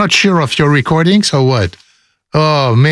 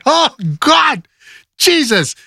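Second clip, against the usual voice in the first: mock panic; 11 semitones higher than usual. Acting panic in the fire.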